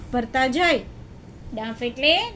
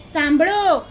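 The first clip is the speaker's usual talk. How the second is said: louder, drawn-out call to listen; announcing; 3 semitones higher, 5 dB louder, slower than usual. Acted. Camel tells the jackal to listen, announcing. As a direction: call out for everyone's attention.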